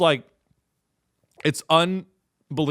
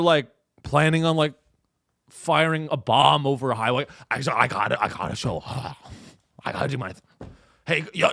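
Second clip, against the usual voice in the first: apathetic cop. Retold or imitated. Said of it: "a cop showing up and being like".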